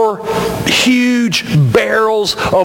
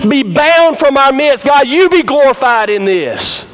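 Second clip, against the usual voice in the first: earnest prayer; 3 semitones higher than usual. Acted. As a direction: pray it, climbing to a fervent plea. Pastor prays aloud for congregation.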